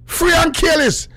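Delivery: shouted Free and careless; rally-cry slogan. Pretend.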